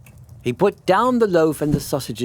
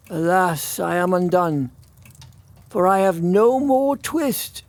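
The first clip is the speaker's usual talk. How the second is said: lamenting; 4 semitones higher than usual. Acted.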